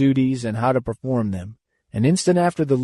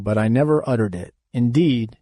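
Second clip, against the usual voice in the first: ordinary delivery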